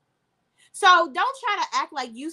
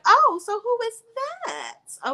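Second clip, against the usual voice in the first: bad acting; 11 semitones higher, slower than usual. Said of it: "with her terrible acting".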